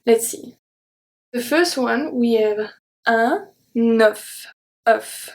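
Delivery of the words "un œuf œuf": un œuf with a closed E and the F sounded; teacher modelling un œuf. Shown as a demonstration. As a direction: say un œuf slowly. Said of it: "So this is a closed E".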